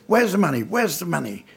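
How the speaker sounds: bully the shop boy for cash, hammed-up; menacing robber. Robber jabbing the son's neck demanding money, mock menace. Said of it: "jabbed my son in the back of the neck and said".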